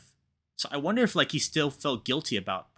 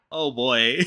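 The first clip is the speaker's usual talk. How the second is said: laughing; 6 semitones higher, 8 dB louder than usual. Real, not acted. Reader laughs at the joke.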